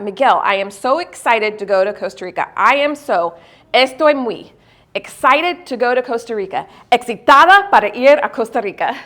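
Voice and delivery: halting learner Spanish, word by word; translating in her head. Retold or imitated. Telling her friend about the trip, in careful learner Spanish. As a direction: piece the Spanish together like a nervous beginner. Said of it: "So I was doing that".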